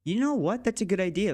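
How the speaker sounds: light up with a new idea; sudden idea. Real, not acted.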